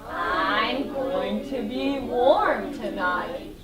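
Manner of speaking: a hint of a slow dog voice; lightly voiced dog. Shown as a demonstration. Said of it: "The dog jumped into the bed and said".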